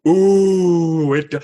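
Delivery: loud drawn-out mock Ooh. Speaker imitating an audience's surprise, loud ooh. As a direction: ham up the ooh. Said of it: "mock audience surprise".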